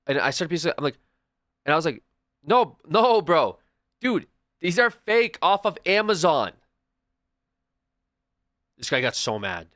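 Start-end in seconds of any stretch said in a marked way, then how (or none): 2.4-6.5 higher, louder, slow mock protest; laughing denial. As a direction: cheerfully blurt out the truth. He tells guy shoes fake.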